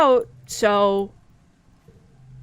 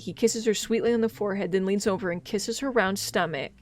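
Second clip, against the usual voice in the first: story narration; faster than usual. Acted. Reads game story text.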